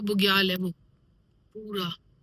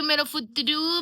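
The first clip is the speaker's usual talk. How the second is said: fond; 5 semitones higher, 3 dB louder, slower than usual. Real, not acted. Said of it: "इसका नाम हमने प्यार से फुतरू".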